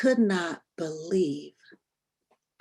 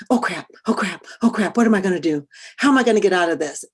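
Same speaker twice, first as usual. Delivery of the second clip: frantic, rushed inner panic; panicked; 5 dB louder, much faster than usual. Retold or imitated. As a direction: blurt it out fast in a flustered panic. Panicked thought as man approaches.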